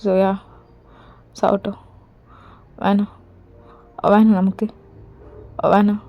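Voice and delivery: a husband muttering "let her die" over and over; bitter muttering. Acted. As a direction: chant it under the breath obsessively.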